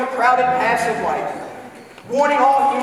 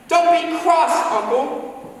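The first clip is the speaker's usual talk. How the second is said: coaxing plea; 5 semitones higher, slower than usual. A narrator's reading. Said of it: "said the nephew".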